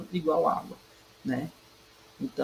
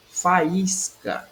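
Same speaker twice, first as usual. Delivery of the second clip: "Faísca" with a higher, stressed Í; 4 semitones higher than usual. Shown as a demonstration. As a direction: lean on the middle Í of "Faísca". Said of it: "na penúltima sílaba".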